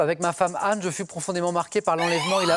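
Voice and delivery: measured quiz-host reading over music; quiz clue read. Acted. Host reading a clue to the contestants, measured and clear.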